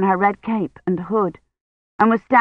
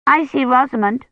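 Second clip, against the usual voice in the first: put-on little girl voice; 6 semitones higher than usual. A narrator's reading. Agnes, child voiced by narrator.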